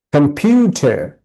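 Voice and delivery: "কম্পিউটার" slow, weight on the middle; middle-syllable stress. Shown as a demonstration. Teacher sounding out stress for students in "কম্পিউটার". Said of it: "the stressed syllables".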